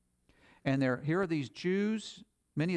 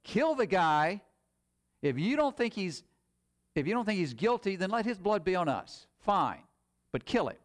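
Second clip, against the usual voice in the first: higher, insistent imitation of an angry crowd; mock crowd shouting; 6 semitones higher than usual. Crowd shouting accusations before Pilate, mock shouting. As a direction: act out a crowd demanding death, raised but short of a full shout. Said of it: "they're shouting out".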